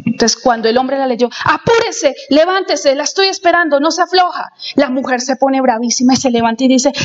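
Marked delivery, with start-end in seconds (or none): 1.4-4.5 higher, curt commanding read; pushy harsh reading of the letter; bossy orders. Retold or imitated. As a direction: bark the orders like a demand. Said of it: "la tonalidad con que las digo es diferente".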